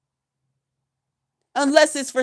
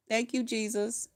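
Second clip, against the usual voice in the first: hushed, much softer thank-you; soft prayerful thanks; 9 dB quieter than usual. Real, not acted. Thanking Jesus for her freedom, hushed and prayerful. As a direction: breathe it out to Jesus.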